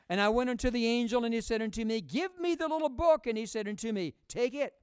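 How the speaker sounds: ringing scripture recital; scripture reading. A narrator's reading.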